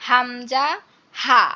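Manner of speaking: হামজা, হা said with the throat fully released; open-throat pronunciation. Shown as a demonstration. Teacher shows students the letters, open-throat হামজা, হা. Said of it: "একদম গলা ছেড়ে উচ্চারণ হবে".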